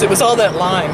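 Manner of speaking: talking with hiccups. Real, not acted. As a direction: speak between hiccups. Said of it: "now I got the hiccups".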